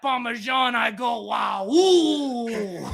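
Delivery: hammed-up Italian delight; a mild mock Italian swoon over cheese; lightly put-on Italian accent. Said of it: "mamma mia".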